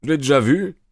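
a touch of indignant protest; object, mildly put out. A narrator's reading. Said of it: "protesta Lestrade".

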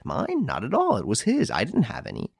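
high, anxious woman's voice; fretful lady clutching her jewels; frightened lady. Acted. Lady denies.

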